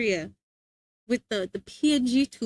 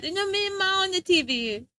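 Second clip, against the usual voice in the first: put-on kid brother; 6 semitones higher than usual. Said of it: "And then getting mad".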